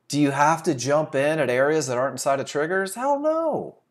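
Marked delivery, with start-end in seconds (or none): 2.9-3.8 high, emphatic hell no. Real, not acted. Trading coach dismissing a bad idea, emphatic. Emphatic answer to own question.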